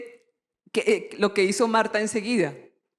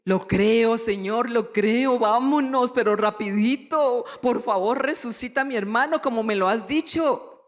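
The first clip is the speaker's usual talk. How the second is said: eager believing Marta. Pretend. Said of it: "le dio la oportunidad de decir".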